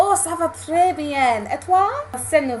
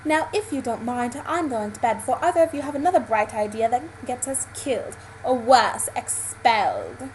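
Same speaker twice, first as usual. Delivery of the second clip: put-on British accent, slowing onto the last word; Harry Potter British accent. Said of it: "talking as the Harry Potter characters do".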